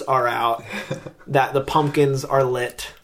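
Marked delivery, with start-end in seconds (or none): 1.3-2.9 spooky outro. Pretend. Performs a Halloween outro.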